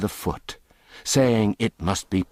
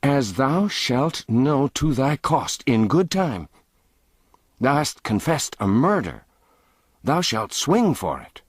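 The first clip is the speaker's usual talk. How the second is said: higher, cold royal threat; threatening boy king; 6 semitones higher than usual. Acted. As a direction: promise him the gallows.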